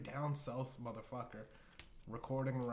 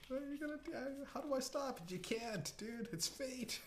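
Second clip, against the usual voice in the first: very high, squealed through laughter; laughing mock prophecy. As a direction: crack up while playing the oracle. Oracle mocks a doomed person.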